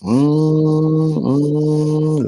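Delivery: long, high, steady mm; imitated humming. Imitating the boat's ride.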